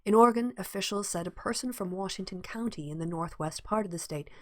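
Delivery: measured, formal news read; slipping into a news-bulletin delivery; newsreader voice. Shown as a demonstration. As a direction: read it like the evening news anchor. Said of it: "I'm going into newsreader voice".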